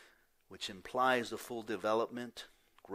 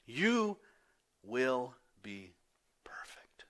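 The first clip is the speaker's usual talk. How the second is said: "You" high, "perfect" whispered; fading to a whisper; 3 semitones higher, 4 dB louder, much slower than usual. Shown as a demonstration. Pastor letting the promise fade, ending in a whisper on "perfect". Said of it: "The word perfect is in the future tense".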